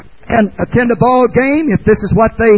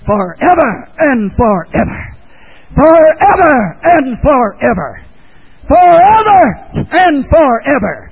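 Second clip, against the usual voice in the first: intoned refrain; 3 semitones higher than usual. Acted. Preacher intoning the words in smoke, building. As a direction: let the words toll like a bell.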